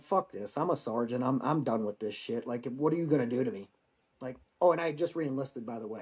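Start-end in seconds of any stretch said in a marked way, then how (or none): 0.0-3.7 low, understated retold defiance; mild fed-up challenge, pitched down. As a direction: retell it low, like someone who's done arguing. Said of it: "I just had enough".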